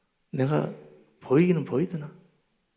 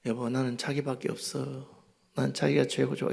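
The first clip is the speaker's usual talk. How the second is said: sweet-talking; 6 dB quieter than usual. Retold or imitated. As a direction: melt her anger gently. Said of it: "내가".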